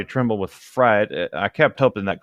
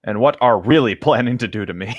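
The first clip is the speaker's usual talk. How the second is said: laughing. Real, not acted. Mocking misread line.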